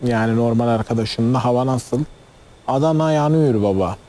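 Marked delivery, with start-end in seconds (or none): 2.7-4.0 Adana accent. Shown as a demonstration. Guest showing the host how people back home talk about heat, Adana accent. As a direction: demonstrate the Adana dialect. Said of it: "O şiveyle direkt".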